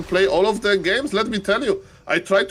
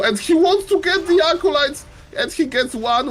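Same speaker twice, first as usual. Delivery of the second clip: excited call; 10 semitones higher, 3 dB louder than usual. Real, not acted. Caster calls a unit pickup.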